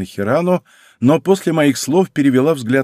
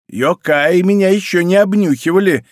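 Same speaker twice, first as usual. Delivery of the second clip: higher, louder indignant grumble; grumbling; 8 semitones higher, 5 dB louder than usual. Acted. Old woman sniffed by the spirit, loud grumbling huff. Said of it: "проворчала Атарашики".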